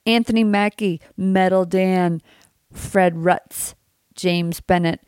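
talking around a retainer; slight retainer lisp; wearing a retainer. Real, not acted. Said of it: "I have my retainer in".

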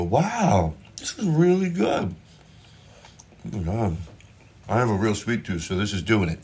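rising, gushing fake delight; faked enthusiasm. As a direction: pile on the praise. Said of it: "You have to go".

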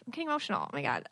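getting emotional. Real, not acted.

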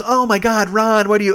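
high, loud imitation of an appalled friend; retold shock. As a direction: cry out in dismay. Marianne reacts, shocked at Ron.

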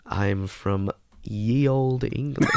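mock English accent. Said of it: "my English accent".

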